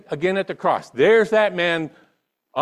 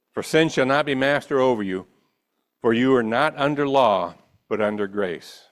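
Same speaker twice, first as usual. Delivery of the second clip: measured, deliberate Bible reading with pauses; solemn public reading of scripture; 5 semitones lower than usual. Acted. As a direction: read the passage aloud phrase by phrase. Resumes reading scripture aloud.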